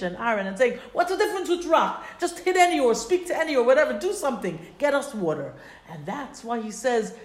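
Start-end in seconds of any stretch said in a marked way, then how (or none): 0.9-5.5 impatient crowd. Retold or imitated. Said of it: "they are screaming at Moshe".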